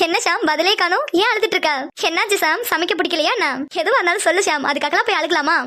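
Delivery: mock-sympathetic coaxing with swooping tune; teasing. Girl asks why Shyam is crying over cooking, teasing. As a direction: tease him as if consoling a crybaby. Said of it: "சும்மாவே கலாய்ப்பா".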